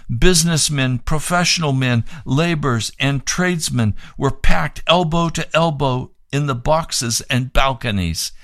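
measured read-aloud narration; formal testimony reading. Acted. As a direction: read the written account out evenly and clearly. Reads the account and newspaper report.

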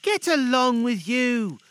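put-on high, loud, drawn-out boyish protest; grinning retort. Peter to his teasing sister, grinning retort. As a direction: brush it off with a grin, stretching it. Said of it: "retorted Peter, grinning".

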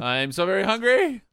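high, loud hungry whine; whiny hungry. Acted. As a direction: groan it out like you're starving. Reacting to food sponsor.

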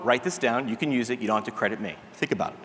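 deadpan, dropped low and quiet; dry aside. Real, not acted. Dry aside after pickup line.

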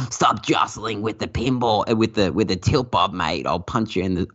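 mock the pinball call-out guy; gruff game announcer. Mimicking the tilt warning voice to the listeners, lightly voiced. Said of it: "you hear that guy and he's like".

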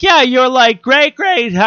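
high-pitched, rambling mom voice; impression of mom. Comedian mimicking mom explaining the family link, high voice. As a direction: answer as your mom, voice pitched right up. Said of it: "And she's all like".

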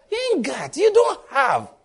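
preacher's forceful call-out; emphatic shout. Real, not acted. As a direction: hammer the point home at the congregation. Preacher presses the point.

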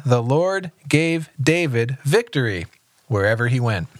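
even, measured Bible reading; understated read-aloud narration; scripture reading. A narrator's reading. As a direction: read the passage aloud plainly and steadily.

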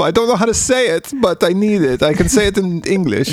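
high put-on pleading; hammed-up helpless plea in a silly voice; Heinrich. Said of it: "that's what Heinrich wanted".

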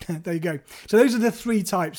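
ordinary talk, nothing marked

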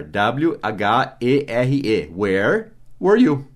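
"Where were you?" said slowly, each word apart; slow classroom model of "Where were you?"; slow, spelled-out pace. Shown as a demonstration. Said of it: "o onde é where".

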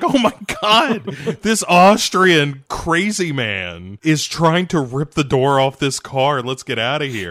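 hint of a panicked woman; panicked lady. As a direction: flee like a frightened old lady. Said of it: "she's like".

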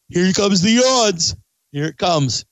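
winded from talking; short of breath, gasping. Real, not acted. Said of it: "'Cause I'm talking too much and I'm not getting enough oxygen".

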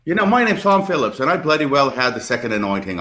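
lightly voiced English bloke bragging; Tom Phillips impression. To tease the English guest, a light English accent. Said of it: "And I could do like Tom Phillips".

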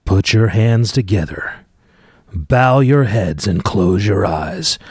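slow, grand mock-reverent introduction; mock solemn announcer. Dad introducing the kid's dramatic reading, mock solemn. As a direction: drag it out like a church call.

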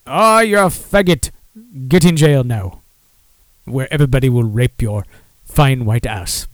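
vague African accent, lightly put on; a half-hearted African accent from Coming to America; botched African accent. Mocking imagined barmen in a vague African accent. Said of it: "I don't even know what the fuck that accent was".

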